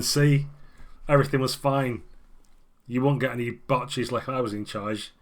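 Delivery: a hint of a boastful old man; lightly voiced old alderman. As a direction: brag about the good old days. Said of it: "He's going".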